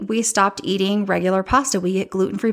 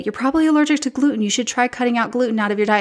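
mocking know-it-all; 3 semitones higher, faster than usual. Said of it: "I would have people say".

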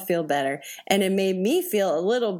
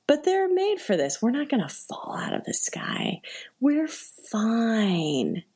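higher, forced reassurance to oneself; self-soothing denial; 3 semitones higher than usual. Retold or imitated. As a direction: talk yourself into calm, a bit higher. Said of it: "I said to no one in particular".

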